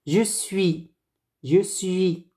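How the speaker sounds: je suis said slowly and clearly, /ʒə sɥi/; careful je suis. Shown as a demonstration. Teacher modelling je suis for students, carefully.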